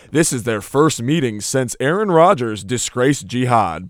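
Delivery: low, slow stadium announcer read; deep PA announcer voice. Pretend. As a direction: boom it like a stadium PA. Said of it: "that was a nice little deep P A voice there".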